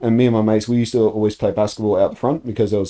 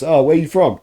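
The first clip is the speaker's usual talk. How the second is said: mild mock yell, pitched up; retold yell; 7 semitones higher, 4 dB louder than usual. Boy yelling across to strangers, mild imitated yell. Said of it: "would just yell across".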